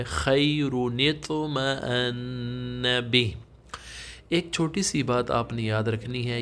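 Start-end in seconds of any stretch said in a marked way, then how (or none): 0.0-3.3 slow, drawn-out tajweed recitation; Quran recitation. Shown as a demonstration. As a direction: chant the verse slowly with tajweed. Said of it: "یہ word میں نے high light کیا". (آہستہ تجوید کے ساتھ تلاوت)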